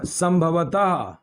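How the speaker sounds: "संभवतः" drawn out slowly, falling at the end; slow teaching model. Shown as a demonstration. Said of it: "teacher modelling an uncertainty word".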